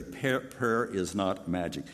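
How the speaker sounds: "Prayer, prayer is not magic" spoken slowly, word by word; slow and clear. Shown as a demonstration. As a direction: spell it out slowly for the congregation. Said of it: "Let me say it very clearly".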